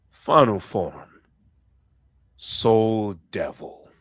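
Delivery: slow, emphatic form name; transformation call. Acted. Captain announcing his final form, slow and forceful. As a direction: announce it slowly, leaning on first words.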